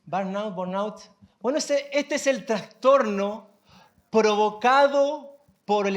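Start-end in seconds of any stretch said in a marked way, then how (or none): 0.0-1.0 burnout as "barnaut", then "bornaut"; two tentative Spanish-accented takes on burnout; trying both pronunciations. Shown as a demonstration. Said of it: "¿Cómo se pronuncia?".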